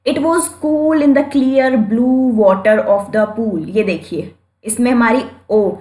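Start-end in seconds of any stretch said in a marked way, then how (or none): 0.1-3.6 each word of The cat had a snack drawn out; slow example reading. Shown as a demonstration. Teacher reading the example sentence slowly for students.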